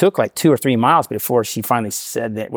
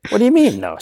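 mock outrage; 10 semitones higher than usual. Father mock-protesting to his daughter, high incredulous squawk. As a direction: play up the disbelief, pitched way up.

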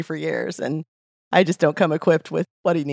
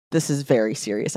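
mock stern; 5 semitones lower, 3 dB quieter than usual. Guy mock scolding her.

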